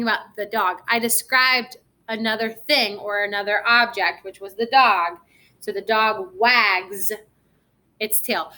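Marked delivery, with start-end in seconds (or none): 5.6-7.1 "So the dog wags" slow, leaning on "wags"; slow stress on wags. Shown as a demonstration. Teacher leaning on wags for young pupils, slowly. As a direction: stretch "wags" so the z ending is heard. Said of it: "when I say the word wags".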